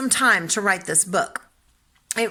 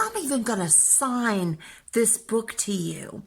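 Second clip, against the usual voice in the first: whispered promise; 4 dB quieter than usual. Retold or imitated. Grandma promises to sign book.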